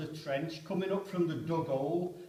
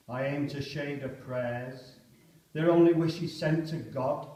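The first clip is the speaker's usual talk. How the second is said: poem reading; slower than usual. Acted. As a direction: shrug it off like a resigned soldier. Poem recited aloud.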